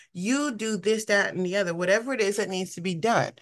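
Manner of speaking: a gentle modeled prayer of surrender. Shown as a demonstration. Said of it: "You have to just be like".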